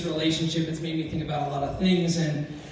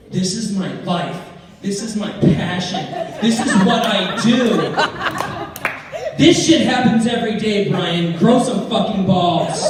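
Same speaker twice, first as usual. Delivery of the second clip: fiancée defending her show; 2 semitones higher, 5 dB louder than usual. Retold or imitated. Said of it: "And her response is".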